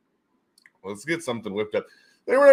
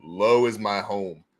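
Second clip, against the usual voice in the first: low voice; 3 semitones lower, slower than usual. Shown as a demonstration. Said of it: "I like to be low".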